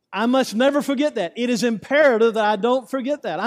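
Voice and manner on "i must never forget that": ordinary delivery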